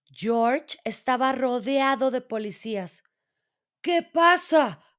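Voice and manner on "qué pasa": slow, higher and louder worried ask; nervous question. A narrator's reading. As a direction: ask the police, unsure and nervous. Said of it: "preguntó nervioso". (pregunta nerviosa y lenta)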